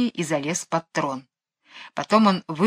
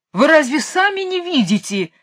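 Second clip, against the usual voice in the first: high, loud exasperated wail; howling king; 9 semitones higher, 3 dB louder than usual. A narrator's reading. King howls at his blind courtiers, high and loud. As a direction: bellow it out in disbelief. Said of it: "завопил король".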